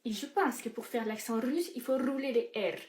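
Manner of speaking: lightly put-on Russian accent. Presenter teaching the accent, mock Russian accent. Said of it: "Je sais pas faire l'accent russe".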